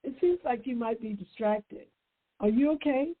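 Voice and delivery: gentle concerned check-in; polite and gentle. Shown as a demonstration. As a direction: show the kind way to ask. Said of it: "Just say".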